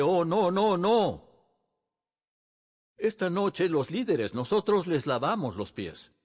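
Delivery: a pastor waving off someone kneeling at his feet; startled protest. Retold or imitated. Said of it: "le dije".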